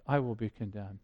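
quiet self-admission. Acted. Preacher admitting his own guilt to the church, hushed and low. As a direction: drop it down and say it to yourself. Preacher applies the verdict to himself.

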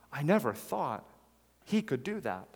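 gasp, then stunned disbelief; a believer stunned by a leader's fall, gasping in disbelief; shocked disbelief. Retold or imitated. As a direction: gasp as if hearing shocking news. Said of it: "very sadly, people's faith is totally disrupted".

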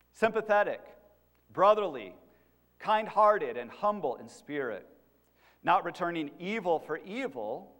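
measured reading aloud, phrase by phrase; Scripture reading. Real, not acted. Preacher reads Peter's letter to the congregation, measured Scripture reading. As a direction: read it out emphatically, pausing between phrases.

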